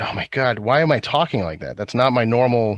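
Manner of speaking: ordinary delivery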